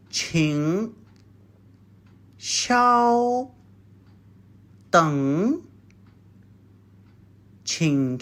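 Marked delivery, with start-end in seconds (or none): 0.1-5.6 syllable by syllable. Shown as a demonstration. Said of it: "It is".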